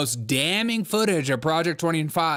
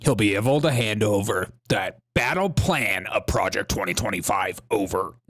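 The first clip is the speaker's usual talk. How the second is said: low, put-on documentary narrator; mock voiceover, pitched well down; mock narration voice; 6 semitones lower than usual. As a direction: imitate a narrator in a lowered voice. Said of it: "that little narration voice".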